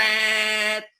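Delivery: lift alarm beep sound.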